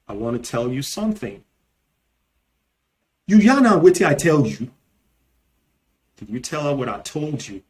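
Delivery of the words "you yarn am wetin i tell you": Nigerian Pidgin. Shown as a demonstration. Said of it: "in Nigerian Pidgin English".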